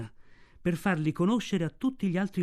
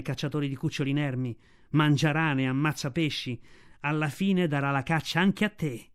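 Raksha the she-wolf. Acted.

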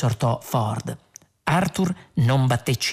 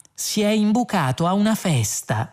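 higher, mildly indignant; understated rage, pitch raised; trembling with anger; 8 semitones higher than usual. A narrator's reading. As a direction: accuse with contained anger. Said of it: "precisò Arthur tremando di rabbia".

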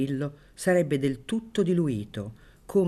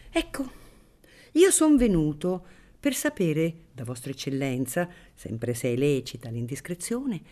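unctuous priest voice; 4 semitones higher than usual. Acted.

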